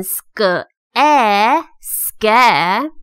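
first syllable of "schedule" built from "sk" and short "eh"; sounding out. Shown as a demonstration. Teacher shows the first syllable of schedule, sounding out. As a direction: blend "sk" and short "e" into "ske". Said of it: "第一个音节就念成".

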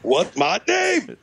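drawn-out, high rapper call; a rapper. Acted. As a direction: imitate the rapper's slow catchphrase. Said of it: "the only impression I can fucking do".

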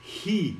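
"Ri" as "hi" with breath released on the h; hot-breath H. Shown as a demonstration. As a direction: let warm air out at the start of "Ri". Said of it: "Você tem que soltar aquele bafo quente".

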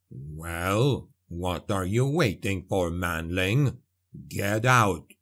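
low, gruff dwarf, impatient. A narrator's reading. Dwarf ordering Andre off the skiff, gruff and impatient. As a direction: bark it out like a blunt dwarf. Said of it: "he said".

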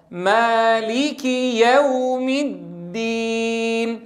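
ordinary talk

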